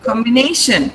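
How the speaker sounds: Combination said combi-NA-tion; stress before -tion. Shown as a demonstration. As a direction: lean on na in Combination. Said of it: "syllable preceding T I O N should be stressed".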